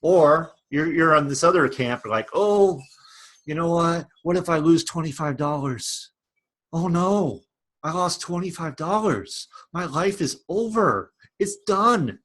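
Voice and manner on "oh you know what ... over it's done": hammed-up fretting over a small loss, pitch creeping up; mock panic. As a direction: act out a worrier's melodrama. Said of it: "emphasizing this a little too much".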